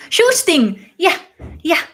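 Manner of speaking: hammed-up Goldmember quote, laughing at yourself. Streamer finally remembers Goldmember's line, hammed-up and loud. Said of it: "What does Goldmember say all the time?".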